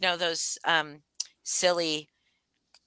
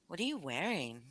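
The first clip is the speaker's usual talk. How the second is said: sexy voice; 14 dB quieter than usual. Retold or imitated. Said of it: "I answer in my sexy work voice".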